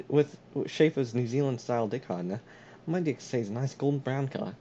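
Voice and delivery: mock product testimonial, New Zealand accent. Spoof sealant advert to a friend, New Zealand accent. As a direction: sell it earnestly in a put-on New Zealand accent. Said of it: "how about I do a New Zealand".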